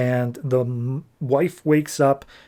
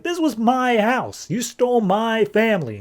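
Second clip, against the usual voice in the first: mock outraged accusation; 9 semitones higher than usual. Acted quarrel over the burning house.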